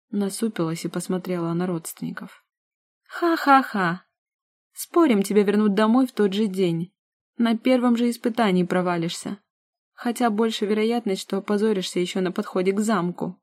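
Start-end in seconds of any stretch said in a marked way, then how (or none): 3.1-4.1 high, loud scornful laugh; mocking laugh. 4.7-13.4 taunting. Acted. Sister taunting.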